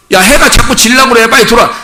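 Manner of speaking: high, urging call to come inside; parent calling. Acted. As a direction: imitate a parent hurrying a child home. Acting parent calling child home. (아이를 재촉해 부르는 부모 흉내)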